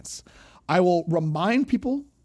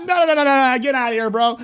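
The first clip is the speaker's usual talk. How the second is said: louder, emphatic no, no, no; loud brush-off; 4 semitones higher, 5 dB louder, faster than usual. Acted. Streamer throwing a racist out of chat, loudly. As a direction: boot him out for real this time.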